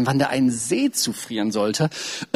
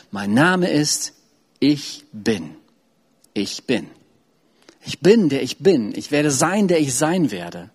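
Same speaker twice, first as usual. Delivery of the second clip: slow, lowered, solemn divine name; voice of God; slower than usual. Acted. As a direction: give it weight and stillness. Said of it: "Und Gott sagte".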